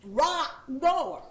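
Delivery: a hint of a Southern drawl on "Right door"; imitating Southern woman. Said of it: "She's saying right door".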